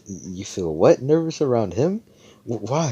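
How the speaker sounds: mock-appalled questions, pitch leaping up; incredulous. Noelle to Mimosa about feeling nervous around him, incredulous. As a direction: voice rising high in disbelief.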